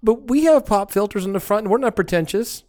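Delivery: high mock protest; mock indignant. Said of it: "and I'm going".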